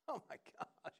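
breathless whispered oh my gosh; awed whisper. Real, not acted. Preacher awed by David bowing, whispered. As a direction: hush it in amazement.

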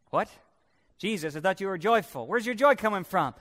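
quick, mock-baffled questioning; baffled challenge. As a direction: fire it off as a puzzled objection. Voices a baffled challenge to Jesus.

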